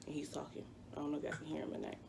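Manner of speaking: hushed aside, whispered fast. Real, not acted. Whispering to viewers about Noah talking nearby. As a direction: drop to a whisper mid-story.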